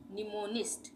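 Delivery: "निमोनिस्ट" starting on N, no M before it; silent M. Shown as a demonstration. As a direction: model "निमोनिस्ट" with the first M silent. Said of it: "एम silent हो रहा है". ("निमोनिस्ट", शुरू का म silent)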